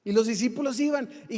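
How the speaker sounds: normal talking voice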